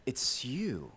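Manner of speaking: whispered accusation. Acted. Nathan confronting David.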